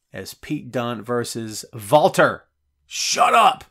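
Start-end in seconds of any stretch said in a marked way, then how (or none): 2.9-3.6 loud, high burst of delighted disbelief; thrilled yelp at the match announcement; excited disbelief. Real, not acted. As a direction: shout it like you can't believe the news. Reacts to Dunne versus Walter.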